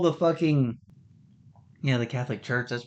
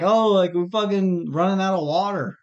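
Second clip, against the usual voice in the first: louder, higher whiny mimicry; mock whiny Californian; 5 semitones higher, 3 dB louder than usual. Mocking Californians moaning about water, louder and higher. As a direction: whine it like a spoiled complainer.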